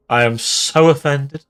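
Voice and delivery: milk the hurt feelings, stressing so; hammed-up offence. Streamer hamming up being hit by a pipe, mock offended.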